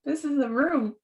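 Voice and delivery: put-on country girl panicking in a tiny club, voice pitched high; panicked disbelief. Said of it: "I'm like".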